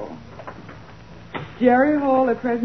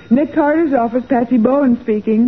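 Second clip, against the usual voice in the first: louder receptionist announcement; phone greeting; 2 semitones higher, 6 dB louder than usual. Acted. Secretary picking up the office telephone, loud formal greeting. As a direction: answer the phone loud and businesslike.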